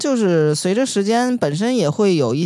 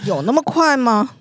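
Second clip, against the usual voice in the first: laughing disbelief; 7 semitones higher than usual. Real, not acted. Laughs, doubting friend's claim.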